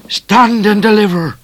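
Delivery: high, loud hold-up cry; called out. A narrator's reading. Bushranger calling from the bush to the coach, loud command. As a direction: shout it as a command from cover. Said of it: "a voice called from the bush".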